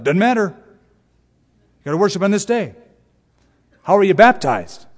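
put-on Southern accent. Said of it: "why do I always do a Southern accent?".

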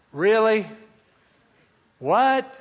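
high, loud incredulous questions; baffled disbelief. Retold or imitated. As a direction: question it as if you can't believe it. Groggy speaker baffled by friend.

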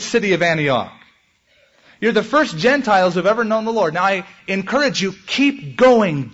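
pleading, rising urge to keep going; rally the young believers not to quit; fervent preacher's plea; urgent encouragement. Acted. Voicing Paul urging young believers.

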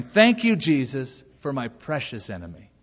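imitated prayer. Pastor praying over his enemy, imitated thanksgiving. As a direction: open it up, then soften to a close. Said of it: "then he started praying".

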